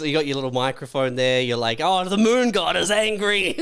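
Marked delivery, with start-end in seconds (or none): 1.8-3.5 hammed-up terrified cry, much higher and louder; mock panic. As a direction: warn them like a doomed prophet. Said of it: "you start screaming".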